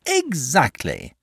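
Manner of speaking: drawn-out, high cry of agreement; excited cry. A narrator's reading. Dragon finds a fellow poet, excited agreement. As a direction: seize on it with delighted emphasis, slowly. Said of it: "cried the dragon".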